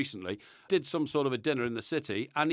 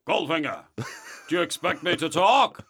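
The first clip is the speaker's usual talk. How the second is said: lightly voiced captive spy; amateur film-hero impression; James Bond; 4 dB louder than usual. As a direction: challenge the villain, louder on the question. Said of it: "how did James sound".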